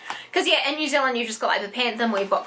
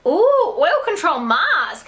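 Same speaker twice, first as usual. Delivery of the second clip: excited ooh; 5 semitones higher, 5 dB louder, much slower than usual. Real, not acted. Gasps at mask in box.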